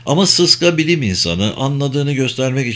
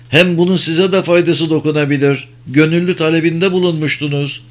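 higher, nervous country farmer voice; anxious farmer; 5 semitones higher than usual. Acted. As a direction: voice a worried old farmer pleading. Farmer Arbin's voice continues. (endişeli, tiz sesli çiftçi)

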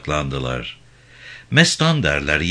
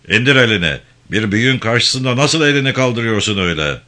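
angry reprimand; 4 semitones higher, 4 dB louder, faster than usual. Acted. Chief scolds Mahmut for pointing.

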